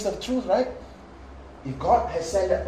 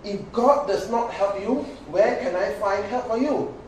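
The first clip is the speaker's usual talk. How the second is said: king's reply; 5 semitones higher, 3 dB louder than usual. Acted. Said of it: "verse twenty-seven".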